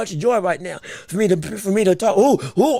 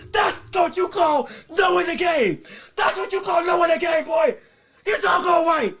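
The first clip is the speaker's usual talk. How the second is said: excited shouting; 5 semitones higher than usual. Real, not acted. Replaying the knockdown shot excitedly.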